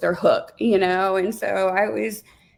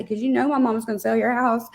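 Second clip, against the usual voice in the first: lightly imitated sassy little girl; a touch of toddler sass, higher; 4 semitones higher than usual. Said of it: "just all sassy".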